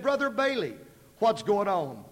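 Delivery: put-on a twelve-year-old asking, puzzled; little girl. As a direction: daughter asking her preacher what's happening. Little girl's question.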